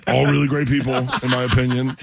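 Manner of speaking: lightly imitated politician's sales patter; a hint of presidential boasting; Donald Trump. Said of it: "I try to sound like Donald Trump".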